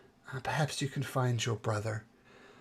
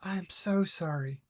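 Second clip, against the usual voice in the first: sorry and caring; 7 semitones higher than usual. Acted. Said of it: "she turns around and says".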